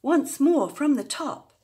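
high, loud, bouncy announcement; rally everyone for a repeat; lively bandleader-like call; rousing call. A narrator's reading. Calls for a repeat.

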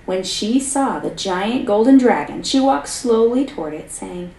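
lively read-aloud storyteller voice; story narration. A narrator's reading. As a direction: tell the fairy tale to a class, expressively. Teacher reads story aloud.

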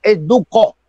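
"Duco" stressed on the last syllable, du-CÓ; stress on final O. Shown as a demonstration. Correcting the host on the stadium's name, "Duco" stressed as du-CÓ. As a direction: land "Duco" on an accented final O. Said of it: "¿Tiene acento en la O?".

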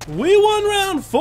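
high, loud, drawn-out victory yell; triumphant shout. Real, not acted. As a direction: bellow the win, stretching the last word. Celebrates round win.

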